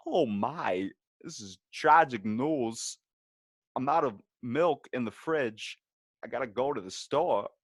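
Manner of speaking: slow, oddly paced, lightly done Walken; lightly voiced Walken, halting and odd; Christopher Walken. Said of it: "my Christopher Walken".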